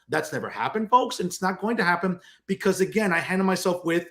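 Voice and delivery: ordinary talk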